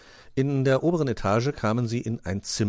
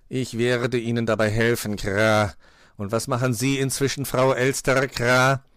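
raised, weighty crow voice; cawing crow master; 4 semitones higher, 6 dB louder than usual. A narrator's reading. Crow offers help and questions magpie, cawing. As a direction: speak deliberately, with loud caws. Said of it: "wollte Meister Schwarzrock wissen".

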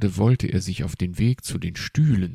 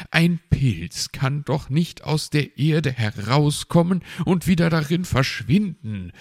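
irritated sigh; 8 semitones higher, 6 dB louder than usual. Acted. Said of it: "seufzte er".

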